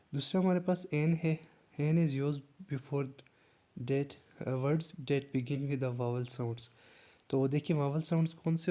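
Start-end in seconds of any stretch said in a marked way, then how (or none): 1.8-6.7 very slow, word by word, like dictating a definition; slow dictation. Shown as a demonstration. Teacher reading the definition slowly to students. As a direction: spell it out slowly for the class.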